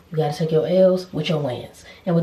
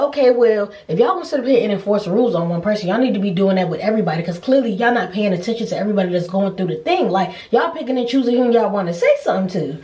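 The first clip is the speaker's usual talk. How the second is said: mild mock argument; 3 semitones higher, faster than usual. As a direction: tell off the staff. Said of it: "I said".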